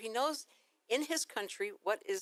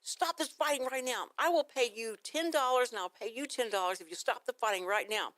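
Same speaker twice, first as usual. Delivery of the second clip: a firm, raised call to stop the fight; commanding; 4 semitones higher than usual. Retold or imitated. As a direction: order the kids to stop, then bargain. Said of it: "and I goes".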